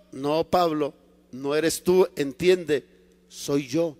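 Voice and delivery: low, firm, patient reply; God's calm correction. Acted. The Lord corrects protesting Paul, calm and firm.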